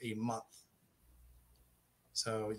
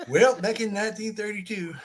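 put-on hammy old man reminiscing, laughing; old-timer voice; 8 semitones higher, 8 dB louder than usual. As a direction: start like a grandpa telling tales. Called Grandpa, plays old-timer.

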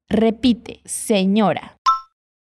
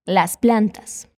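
"Las plantas" said slowly, lifting at the end; slow model, rising; 4 semitones lower, slower than usual. Shown as a demonstration. Teacher repeating "Las plantas" slowly with a rising tune. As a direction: drawl "Las plantas" gently up at the close. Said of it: "Fala comigo".

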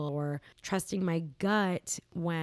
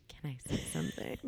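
laughing guest imitation; faster than usual. Sister mocking how podcast guests interrupt, laughing. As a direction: giggle while mimicking a guest cutting in. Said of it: "stop you and say".

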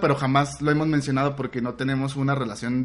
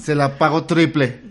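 imitando a un borracho; 4 dB louder, slower than usual. Retold or imitated. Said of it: "le dice mi carnal ya pedote".

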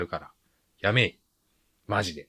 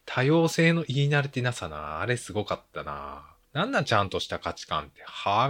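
sneering, incredulous mockery; mock the words with scorn; 3 semitones higher than usual. Mocking the father's line.

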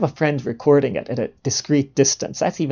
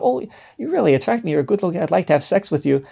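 woman coming on; 3 semitones higher, 4 dB quieter than usual. Acted. Woman approaching a man on the street, lightly imitated come-on. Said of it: "a woman comes up".

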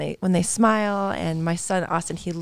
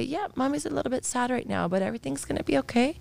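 put-on soothing toddler; 8 semitones higher, 4 dB quieter than usual. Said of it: "And I say".

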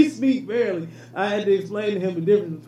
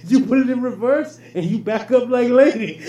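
mock Mexican accent; 3 semitones higher, 5 dB louder than usual. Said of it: "my accent is great".

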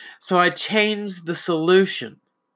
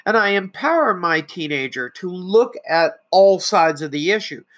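ordinary talk

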